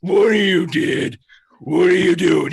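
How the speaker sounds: yelling. Acted. Cop bursts in yelling at crowd.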